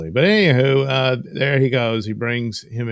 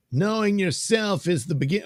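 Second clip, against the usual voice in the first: much higher put-on voice; high character voice; 10 semitones higher than usual. Reading a comic balloon aloud, high character voice. Wrong character voice, corrected after oh wait.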